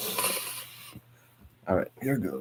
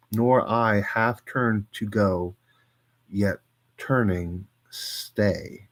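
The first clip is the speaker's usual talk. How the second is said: measured poetry recital, some lines slowed; poem reading. Acted. Streamer reading a Plath poem to chat, measured recital. Reads Rossetti poem aloud.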